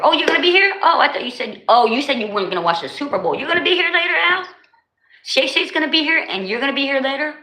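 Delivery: delighted oh-really reaction; pleasantly surprised to hear guests return. Real, not acted. Surprised chat reading.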